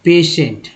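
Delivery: पेशेंट said as "pe-shent", with a sh sound; teacher modelling पेशेंट slowly; pronouncing patient. Shown as a demonstration. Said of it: "क्या पढ़ा जाता है इसे?".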